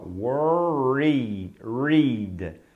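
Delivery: "Worry, read" broken into two parts; split syllables. Shown as a demonstration. Teacher splits "Worried" into parts for the class. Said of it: "Olha o que você faz com a boca".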